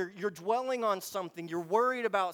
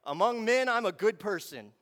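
self-righteous Pharisee; 4 dB louder than usual. Acted. Pharisee comparing himself to other men, self-righteous. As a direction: proclaim your goodness out loud. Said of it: "You've got this Pharisee who's like".

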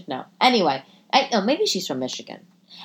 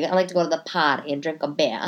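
mock Boston accent; 4 semitones lower, faster than usual. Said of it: "it's the worst accent".

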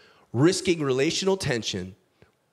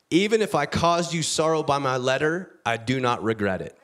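blunt declaration. Acted. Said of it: "he drops this bomb".

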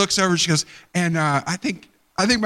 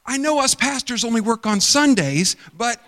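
sarcastic; 6 semitones higher than usual. Retold or imitated. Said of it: "I'm like".

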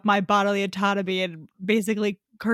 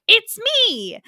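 high, louder mock aunt squeak; high squeaky reveal; 11 semitones higher, 6 dB louder than usual. Disguised Tommy revealing herself to Philippa, high squeak. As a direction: pop it up high like a giddy reveal. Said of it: "great Aunt Winchester is like".

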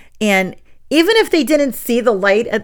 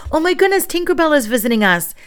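excited gasp; 8 semitones higher, 3 dB louder, faster than usual. Retold or imitated. Teacher playing along with kids.

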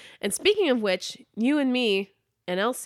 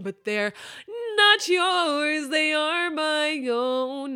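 eerier voiceover; 6 semitones higher, much slower than usual. Acted. Repeats the line slower, eerier.

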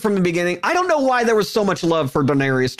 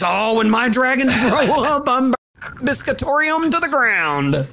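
mock Daenerys threat; 7 semitones higher than usual. Mocking Daenerys threatening a bakery.

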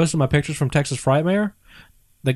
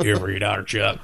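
raspy voice; 6 semitones lower, 4 dB quieter than usual. Retold or imitated. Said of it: "That raspy voice that he loves oh so much".

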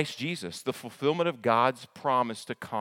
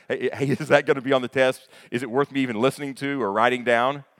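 louder, eager student voice with a laugh; student asking; 7 dB louder, faster than usual. Retold or imitated. Preacher plays a student asking the teacher, eager and louder. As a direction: ask it like the class slacker. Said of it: "maybe you were that person".

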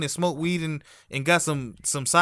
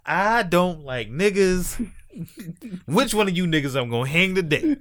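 mock racist white man; 4 semitones higher than usual. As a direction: retell a comedian's bit as the open bigot. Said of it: "white people used to go around and say".

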